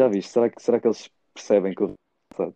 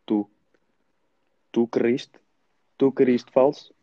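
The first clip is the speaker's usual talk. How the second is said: mock teacher scolding; 3 semitones higher, slower than usual.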